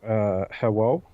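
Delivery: lightly put-on anime character voice. Co-host greets listeners for first anime episode, light anime voice. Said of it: "I have to do the anime voice".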